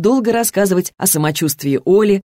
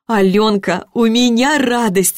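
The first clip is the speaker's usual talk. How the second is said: joyful news; 5 semitones higher, slower than usual. A narrator's reading. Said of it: "сообщила соседка".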